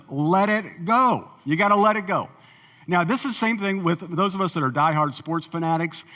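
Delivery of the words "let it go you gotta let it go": a light take on a patient wife; imitating his wife. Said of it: "She says".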